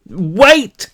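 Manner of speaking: sudden loud high cry; alarmed shout. A narrator's reading. Brick cries out to the charging old woman, shouting. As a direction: yell it out in alarm.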